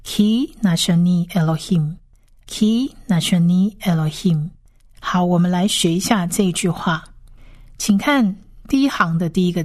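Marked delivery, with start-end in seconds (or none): 0.0-4.5 "ki nashani Elohim" as khee na-sha-nee eh-lo-heem; long ee in "ki nashani Elohim"; model phrase reading. Shown as a demonstration. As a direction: read "ki nashani Elohim" word by word for learners. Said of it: "这三个字合起来是".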